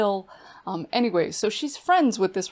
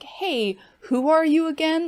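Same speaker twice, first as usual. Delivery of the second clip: retold outburst, pitch jumping high and loud; grieving mother snaps at Stacy, demanding who she is, in a mock angry outburst; 9 semitones higher, 5 dB louder than usual. Mother confronting the stranger asking questions, mock angry high demand. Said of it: "she gets really mad and she's like".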